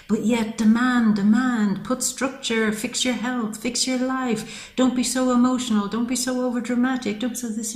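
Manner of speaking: lightly mimicked scolding from others; mocking nag. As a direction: rattle off the orders like a nagging parent. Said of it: "at night saying".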